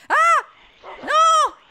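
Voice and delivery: high, loud panicked cries; panicked yelps. Real, not acted. Gamer yelps as creatures swarm him, panicked and loud. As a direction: yelp in sudden alarm.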